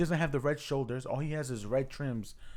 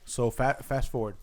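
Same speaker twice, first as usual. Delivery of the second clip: crunching chips. Real, not acted. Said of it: "Excuse my crunching".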